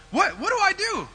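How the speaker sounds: loud, high panicked cry. Retold or imitated. Broke and stranded son panics about what to do, in a loud, high cry. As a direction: blurt it out in sudden panic.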